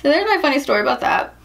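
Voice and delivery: talking through high giggles; laughing. Real, not acted. Wrapping up her funny story for viewers, laughing.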